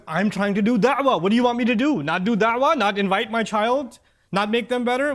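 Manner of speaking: indignant mother pleading her case; a touch of an indignant mother; defensive mom. Retold or imitated. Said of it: "And the mom says".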